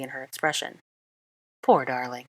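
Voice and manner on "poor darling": lightly voiced teasing comfort; mock encouragement. A narrator's reading. Draco teasing Granger before the Floo, mock encouragement. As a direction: pat her on the head with words, half mocking. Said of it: "said Draco in mock encouragement".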